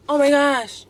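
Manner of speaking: high, loud mock-horrified gasp of words; imitating distraught professor. Professor reacting to the angry student, mock dismay. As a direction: play a professor aghast at the offence. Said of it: "literally like this".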